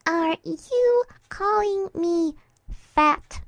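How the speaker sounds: high, loud, slow accusing question; dangerous offence. Acted. Mare to the friend beneath her, offended and threatening. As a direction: space the words out like a warning. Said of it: "Dinky's eyes narrowed dangerously".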